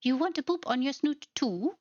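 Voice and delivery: high, laughing question to a pet; delighted cooing. Real, not acted. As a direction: giggle while cooing. Laughing at tiny creatures.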